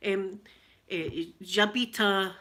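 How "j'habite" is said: French with a Glaswegian accent; hesitant schoolbook French, Glaswegian accent; French attempt. Shown as a demonstration. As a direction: try French and stay Glaswegian. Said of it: "And then French".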